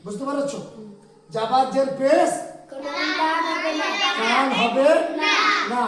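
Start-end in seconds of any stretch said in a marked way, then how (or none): 1.3-5.8 louder, for the class to repeat; say it loudly. Shown as a demonstration. Teacher prompting the class to say the rule loudly. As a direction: call it out clearly for the class. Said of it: "কথাটা জোরে বলবে তোমরা".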